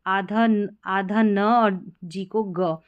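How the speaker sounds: slow breakdown of आधा न and ग; drawn-out teaching of आधा न, then ग; sounds spelled out. Shown as a demonstration. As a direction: take आधा न and ग slowly, sound by sound. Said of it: "इसका उच्चारण आ रहा है".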